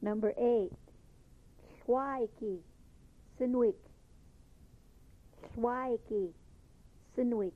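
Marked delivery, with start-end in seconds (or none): 1.8-3.8 "Shwaiki" with a breathy lateral hiss at the start, then a falling "Sinwik"; barred L demo. Shown as a demonstration. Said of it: "There's your barred L sound". 5.5-7.5 "Shwaiki" with a breathy lateral hiss at the start, then a falling "Sinwik"; barred L demo. Shown as a demonstration. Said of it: "There's your barred L sound".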